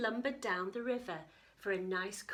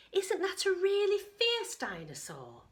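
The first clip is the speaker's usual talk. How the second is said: worried; 10 semitones higher, 5 dB louder than usual. Acted. Katie alarmed.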